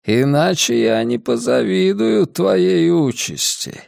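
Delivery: a frail, scheming old man, lightly voiced. Old man character speaks.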